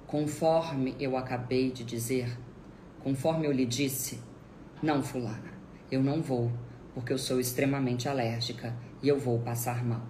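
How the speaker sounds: same even intonation as before the protest; measured, stonewalling restatement; unmoved verbatim repetition. Shown as a demonstration. Answering the insistent relative with identical words, unmoved. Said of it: "repetir inclusive a entonação".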